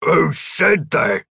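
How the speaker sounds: slow, high startled ask; startled question. A narrator's reading. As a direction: ask it baffled. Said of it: "Gripper asked".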